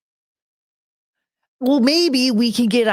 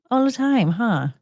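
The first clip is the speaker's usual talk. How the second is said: higher, sing-song question to the dog; pet voice; 4 semitones higher than usual. Real, not acted. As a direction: tease the dog lovingly. Asking the dog playfully.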